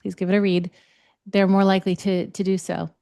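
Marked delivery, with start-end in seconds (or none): 0.0-0.7 gently assertive. Acted. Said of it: "if it's kind of gently assertive".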